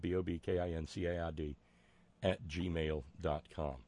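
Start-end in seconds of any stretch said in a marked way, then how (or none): 0.0-1.6 spelled out letter by letter. Shown as a demonstration. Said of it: "It's Bob Kincaid".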